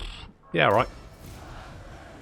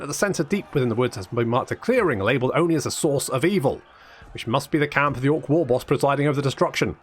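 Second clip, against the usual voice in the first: quick, lively quest-text reading; story narration; faster than usual. Acted. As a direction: read it out like a chivalric tale.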